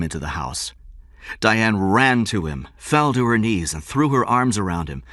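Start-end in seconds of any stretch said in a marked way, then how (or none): none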